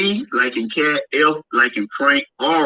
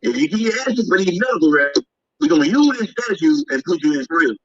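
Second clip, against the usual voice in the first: threatening letter voice; 4 semitones higher than usual. Retold or imitated. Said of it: "a threat letter with this code".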